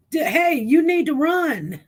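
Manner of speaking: high, loud, giggly mock alarm; laughing warning. Joking with viewers about stress, laughing warning. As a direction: warn them through laughter.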